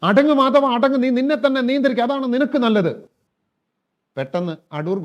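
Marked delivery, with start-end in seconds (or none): 0.1-2.9 loud, higher, forceful scolding; father sternly shouting to restrain himself; strong stern command. Acted. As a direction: bark the order to calm down. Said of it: "അതിലും strong ആയിട്ട്".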